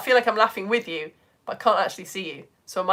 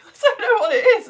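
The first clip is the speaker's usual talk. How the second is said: said fast through laughter, higher; laughing; 12 semitones higher, 8 dB louder, faster than usual. Real, not acted. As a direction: giggle the words out. Laughing at own mocking.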